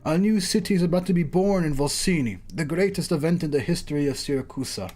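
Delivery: lightly theatrical character dialogue; acted story reading. Host announces a grand celebration, lightly acted story reading. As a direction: read it like a modest stage performance.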